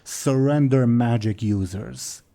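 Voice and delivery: slow, broken dragon speech; lightly voiced dragon demanding.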